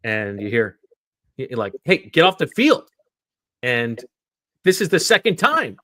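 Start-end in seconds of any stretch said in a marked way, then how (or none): 1.8-2.9 higher, louder mock yell at trespassers; imitating a yell. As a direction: bark it like an angry GM. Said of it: "Howie Roseman yelling at these two guys".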